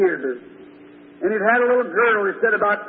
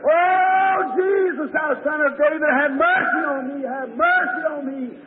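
imitated scream for mercy, pitched up; crying out louder; 3 semitones higher than usual. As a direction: cry out desperately over a noisy crowd. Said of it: "he screamed that much louder".

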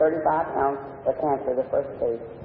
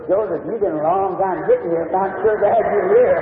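put-on rising happy welcome to the baby; retold delighted greeting; joyful greeting; 4 semitones higher, 4 dB louder than usual. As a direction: greet him like a long-awaited son. Father greets his newborn son.

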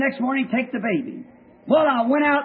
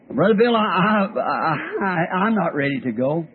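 halting, trailing voice dropping much lower; faltering confession; 5 semitones lower than usual. Retold or imitated. Dying girl to preacher, halting and falling away. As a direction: stammer it out as if dying and afraid.

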